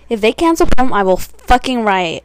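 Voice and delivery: loud tweet readout. Acted.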